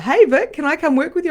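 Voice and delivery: high, loud eager voice of a new client; high, loud excited client asking to join. Retold or imitated. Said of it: "when a New Zealander's like".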